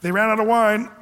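high, pushy, laughing nudge; mother laughingly urging her son to reveal himself; eager urging mother. Retold or imitated. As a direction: egg him on to show his power. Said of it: "She's saying".

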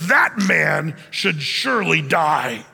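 slow, forceful shouted verdict; raging. Acted. David hearing the lamb story, raging. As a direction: pronounce it in heavy, drawn-out anger. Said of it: "and he rages".

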